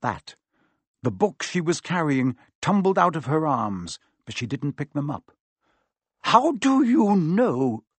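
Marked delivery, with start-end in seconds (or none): 6.2-7.8 slow, higher shocked splutter; a professor sputtering in shock. A narrator's reading. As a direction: caught off guard, stammering it out. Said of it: "she spluttered".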